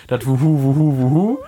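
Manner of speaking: trying the owl hoot. Shown as a demonstration. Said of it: "Was hättest du gerne".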